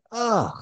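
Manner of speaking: high-pitched, falling "ugh" of dismay; exasperated groan. Retold or imitated. Acting out exasperated reaction to goal.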